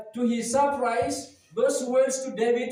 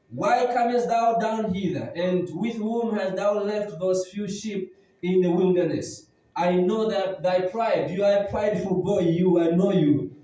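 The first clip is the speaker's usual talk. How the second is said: scolding elder brother; 4 semitones lower than usual. Acted. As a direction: scold the younger brother like an angry big brother. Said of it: "He came scolding him".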